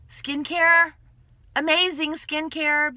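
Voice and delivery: loud, high and drawn out with delight; gushing. Real, not acted. A seller gushing to viewers about skincare, loud and thrilled. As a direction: sell the thrill of it.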